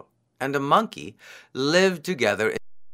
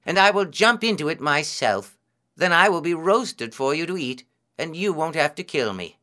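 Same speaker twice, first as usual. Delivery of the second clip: lightly voiced hare, higher-pitched; willing, selfless hare; 5 semitones higher than usual. Hare offering to be roasted, earnest and willing.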